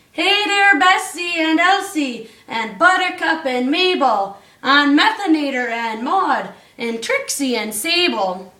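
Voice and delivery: a lightly voiced Santa hollering to his herd; half-sung call to the cows. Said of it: "he hollered and he called them by name".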